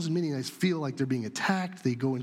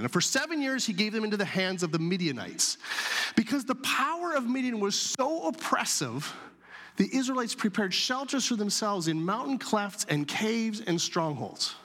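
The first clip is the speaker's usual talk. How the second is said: scripture reading; 5 semitones higher than usual. Acted. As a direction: read the passage like holy text. Reads scripture aloud.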